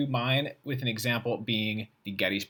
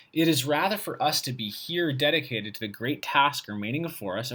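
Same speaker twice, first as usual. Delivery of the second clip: reading aloud; 2 semitones higher than usual. Shown as a demonstration. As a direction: read it out like a formal text.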